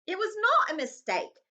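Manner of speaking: high, loud angry protest; boy standing up angrily. Acted. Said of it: "Harry said angrily".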